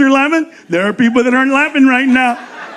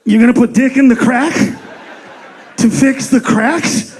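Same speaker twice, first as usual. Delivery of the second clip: disbelieving question. Acted. Customer repeats in disbelief.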